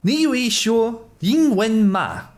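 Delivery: high, slow copy of the recording; high mimicry. Shown as a demonstration. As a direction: mimic the tone carefully and slowly. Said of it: "imitating the Mandarin clip".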